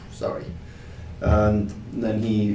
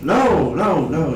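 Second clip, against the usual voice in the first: louder, higher panicked no's; hasty denial; 5 semitones higher, 5 dB louder, much slower than usual. Acted. Drunk denying anything illegal to the marshal, panicky. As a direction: blurt the denial out fast.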